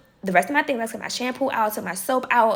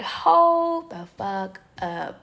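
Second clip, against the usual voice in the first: angry; 3 semitones lower, 3 dB quieter, much slower than usual. Retold or imitated. Finding her body wash opened.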